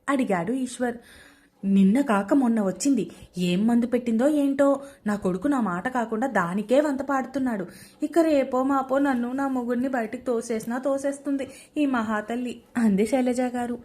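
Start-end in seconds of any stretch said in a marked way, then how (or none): 1.6-12.6 loud scolding mother-in-law. Acted. Mother-in-law complaining to her son about the bride, louder scolding. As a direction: raise your voice, a bitter mother-in-law's jibe.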